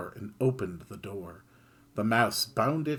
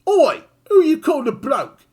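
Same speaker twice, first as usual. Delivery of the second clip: much higher, very loud shout; angry bark; 13 dB louder than usual. Acted. Kid snapping at the mouse, loud angry shout. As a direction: bark at the voice in outrage. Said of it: "Kid barked angrily".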